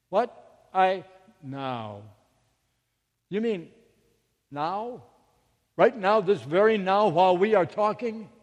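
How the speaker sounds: halting disbelief, building to loud, high questioning; incredulous questioning. Retold or imitated. Mother questioning the inner voice, startled and incredulous.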